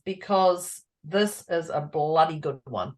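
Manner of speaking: emphatic Kiwi slang. Real, not acted. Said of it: "Aussie Kiwi wording".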